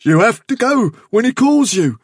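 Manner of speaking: loud, high, compelled chant; spellbound, panic-struck insistence; muttered in a trance. A narrator's reading. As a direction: intone it as if summoned. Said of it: "so thickly that Hazel could hardly catch".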